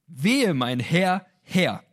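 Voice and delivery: a slow, drawn-out mock wail of dread; panicked cry. Gideon realizing who sits before him, drawn-out panicked cry. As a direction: let the words stretch out in horror. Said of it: "komplett panisch und hysterisch".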